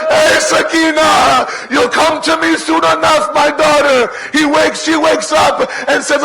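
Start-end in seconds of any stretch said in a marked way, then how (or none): 0.1-4.1 calling out. Acted. Hussein calls Sakina in dream.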